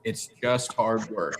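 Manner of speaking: drawn-out, amused imitation of her answer; imitated smiling reply. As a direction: repeat it back slowly, as if grinning. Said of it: "she has the biggest smile on her face".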